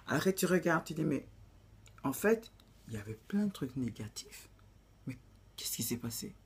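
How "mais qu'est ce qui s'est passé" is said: hushed whispered question to herself. Pretend. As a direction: breathe it out as a secret doubt. Asks herself in reflection.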